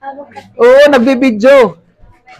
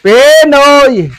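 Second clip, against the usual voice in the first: vendor's call; 3 semitones higher than usual. Real, not acted. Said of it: "sa pagsigaw ko".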